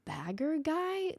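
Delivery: mock his disdain, drawing it out; condescending. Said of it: "the way he spoke to him was just like".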